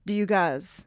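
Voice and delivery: lightly voiced cowboy dad. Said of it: "I made my dad sound like a cowboy".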